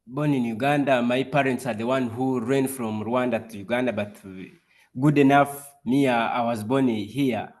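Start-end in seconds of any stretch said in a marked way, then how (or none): none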